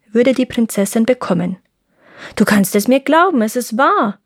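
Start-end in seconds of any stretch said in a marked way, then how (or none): 2.3-4.2 lightly voiced crow; a hint of crow insisting; raspy cawing crow.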